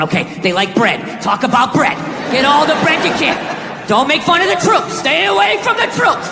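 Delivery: voiced inner coaching, rising; mild mock pep talk to himself; imitating the struggling comic. Comic muttering to himself about the crowd, in a mild mock voice.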